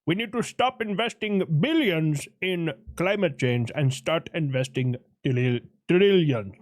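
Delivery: mock Indian accent, stumbling on trillions. The speaker urges climate investment in a put-on Indian accent. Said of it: "that is hard to say in this accent".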